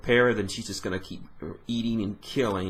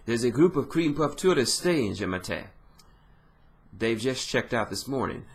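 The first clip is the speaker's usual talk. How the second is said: put-on French accent; 2 semitones higher than usual. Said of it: "accentuated French accent".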